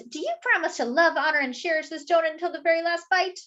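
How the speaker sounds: a lightly voiced officiant at a donut wedding. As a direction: recite the vows like a minister. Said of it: "And this one says".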